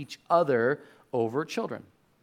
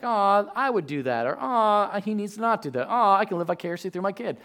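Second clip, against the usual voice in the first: doting parent; 2 semitones higher than usual. Retold or imitated. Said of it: "I'm like".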